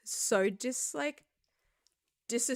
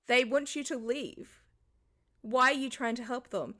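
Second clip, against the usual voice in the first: louder, insistent retelling; mild retold insistence; retold urging; 4 semitones higher, 4 dB louder than usual. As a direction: push coworkers to leave, louder. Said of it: "I at the table was like".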